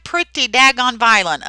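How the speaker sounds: teacher loudly marveling at a violent photo; excited outburst. Real, not acted. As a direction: blurt it out in shock at the picture. Teacher exclaims at fire photo.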